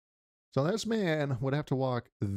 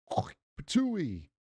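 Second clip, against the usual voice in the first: mock hawk and spit; cartoon spit noise; imitated spitting; 2 semitones higher than usual. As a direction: act out spitting a loogie. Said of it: "And then he goes".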